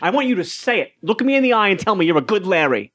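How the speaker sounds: insistent. Acted. Doctor pushes Larry.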